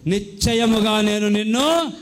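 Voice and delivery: slow, weighty reading of God's promise; drawn-out scripture promise; slow solemn promise. Shown as a demonstration. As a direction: let each word land slowly, as a vow. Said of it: "ఒక వాగ్దానం చేస్తున్నాడు".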